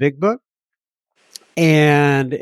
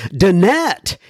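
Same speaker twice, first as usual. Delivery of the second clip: slow, higher mock French accent on La Instagram; 6 semitones higher, slower than usual. Host introducing the next listener message, in a mock French accent. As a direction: playfully drawl it like a Frenchman. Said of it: "this French accent thing".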